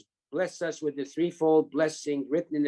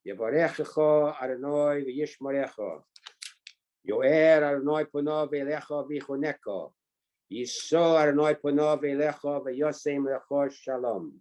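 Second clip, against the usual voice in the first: Ashkenazi Hebrew, "Yevarechecha" with o vowels: "ponov", "Adonai" as "Adonoi". Real, not acted. Reciting the priestly blessing to the group, in Ashkenazi Hebrew. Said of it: "you say it with a little bit of Ashkenazi".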